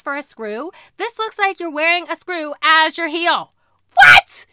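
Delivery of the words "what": much higher, louder disbelief; shocked squeal. Real, not acted. Showing viewers a screw heel, shocked squeal. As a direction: squeal in delight.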